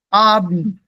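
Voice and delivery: Abend as AH-bn, no E; fuse B and N in Abend; merged B and N. Shown as a demonstration. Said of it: "it gets a merge".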